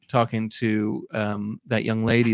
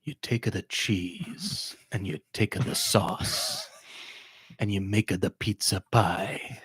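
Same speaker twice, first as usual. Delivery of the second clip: mock Italian accent; 2 semitones lower, 6 dB quieter than usual. Mock Italian pizza lines for Mario.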